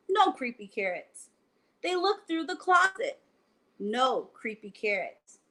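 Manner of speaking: reading a bedtime picture book aloud; lively read-aloud to children; story narration. A narrator's reading. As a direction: tell it like a bedtime story for kids.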